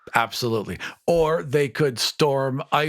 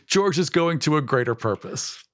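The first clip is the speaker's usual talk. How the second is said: slightly put-on, higher-pitched tree voice; a hint of a treant, pitched up; lightly voiced treant; 5 semitones higher than usual. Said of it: "they would look at it and say".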